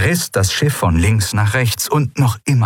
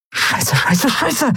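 hissed curse; much slower than usual. A narrator's reading. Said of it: "zischte Endriel".

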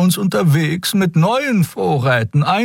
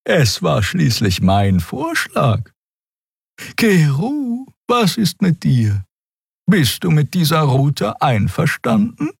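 etwas tiefer, langsam, gelassen; leicht schmunzelnd zustimmen; Xea-Stimme; 3 semitones lower than usual. Acted. Xea fragt Keru. (ruhig und tief)

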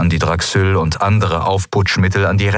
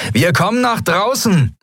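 lightly voiced Sephiron, higher, calling out; a hint of a cocky pirate calling outside; mild call to the pirates; 12 semitones higher than usual. A narrator's reading. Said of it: "rief Sephiron".

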